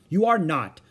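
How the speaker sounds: bossy little contradiction; contradicted. A narrator's reading. Ramona contradicting Howie about the parade. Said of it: "contradicted Ramona".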